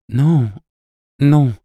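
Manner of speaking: consoling protest. A narrator's reading. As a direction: reassure with two separate, high-pitched nos. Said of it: "sur un ton consolateur".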